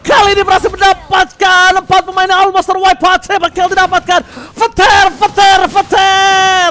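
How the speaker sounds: high shouted hype call; fighting game announcer. Real, not acted. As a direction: roar out the big kill like an announcer. Caster hyping a triple kill.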